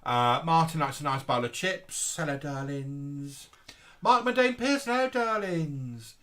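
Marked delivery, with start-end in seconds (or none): 2.2-6.1 lightly camp, drawn-out hello darlings; campy drag queen. Pretend. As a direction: greet them like a camp diva. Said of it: "What's this voice come from?".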